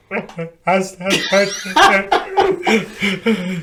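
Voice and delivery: high, broken imitation sobbing; mock crying. New Marine after the handshake, imitated tearful sobbing. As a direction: blubber wordlessly, hammed up. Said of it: "in part what made me cry".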